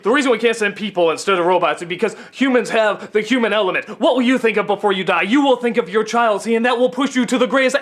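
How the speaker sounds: fast, lightly mocking grand monologue; lightly parodying the astronaut's lofty lines; mock profound speech. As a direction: rattle off pompous movie wisdom. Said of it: "he just talks like this".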